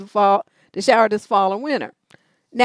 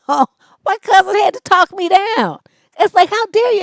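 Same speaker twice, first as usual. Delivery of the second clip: much higher, louder, wound up; heated retelling; 9 semitones higher, 6 dB louder than usual. Retold or imitated. Recounting the dog fight, much higher and louder. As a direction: relive the outrage at full tilt.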